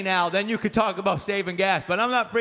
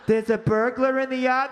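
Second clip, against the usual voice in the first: higher, questioning mom; alarmed mother; 4 semitones higher than usual. Retold or imitated. Mom reacting to dad, higher pitched. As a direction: play mom taken aback.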